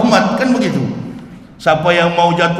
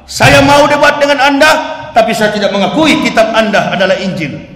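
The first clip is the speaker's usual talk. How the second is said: firm declaration; 3 semitones higher, 5 dB louder than usual. Shown as a demonstration. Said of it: "Bikin pengakuan".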